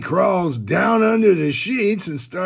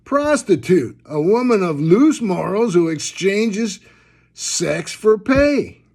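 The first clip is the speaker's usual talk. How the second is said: reading a definition aloud. Retold or imitated. Woman reads dictionary entry to koala, pointed reading aloud. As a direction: read it out pointedly, stretching the last words. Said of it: "she reads to him".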